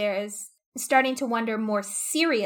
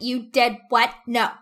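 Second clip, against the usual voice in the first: shocked outrage; 7 dB louder than usual. Retold or imitated. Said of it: "she's like".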